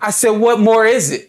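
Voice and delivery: high, loud furious question to God; furious demand. Retold or imitated. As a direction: throw it up at the sky, fuming. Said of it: "'cause I'm furious".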